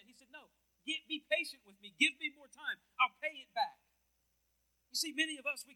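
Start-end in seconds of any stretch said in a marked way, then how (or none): 0.3-3.8 loud, high pleading for more time; a servant crying out for mercy, loud and high; desperate pleading. Acted. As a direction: beg the king, voice up and loud.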